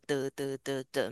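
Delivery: each syllable the same weight and length; even beats. Shown as a demonstration. Teacher showing students Chinese's even beat. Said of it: "像讲中文这样都是这样的".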